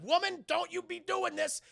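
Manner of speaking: high, loud, slow reprimand; mock scolding. Agent returns to escaping prisoner, loud slow scolding. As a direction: draw out an exasperated telling-off.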